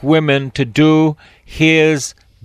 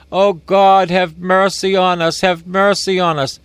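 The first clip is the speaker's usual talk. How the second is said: raised, pleading plea to God; mock pleading cry; 4 semitones higher than usual. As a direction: beg for mercy, a bit higher. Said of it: "They cried out".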